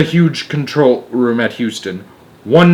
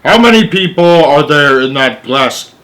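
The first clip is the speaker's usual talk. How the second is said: rasping President; 3 semitones higher, 6 dB louder than usual. A narrator's reading. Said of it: "rasped the President".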